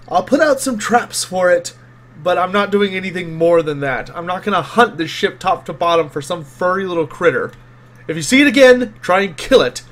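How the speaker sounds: exasperated, grudging concession, lightly acted; Gustav. Game master as Gustav brushing off a rat report, exasperated. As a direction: give in irritably, punching key words. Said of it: "he sighs and he goes".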